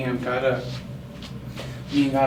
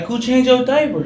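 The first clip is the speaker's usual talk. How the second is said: higher, louder mom voice asking; a hint of mom; 10 semitones higher, 7 dB louder than usual. Mom asking the toddler who changed him, higher mom voice.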